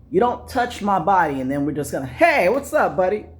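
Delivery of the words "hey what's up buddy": high, bright fake buddy greeting; mock friendly greeting. Comic mocking a guy's fake friendliness, high and chummy. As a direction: play the phony pal.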